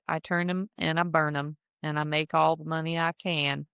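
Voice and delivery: lightly put-on Texas voice; a hint of a Texas hustler; Texas accent.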